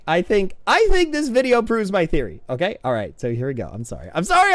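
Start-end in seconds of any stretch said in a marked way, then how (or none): 3.7-4.5 giddy apology. Real, not acted. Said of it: "I'm way too giddy over this".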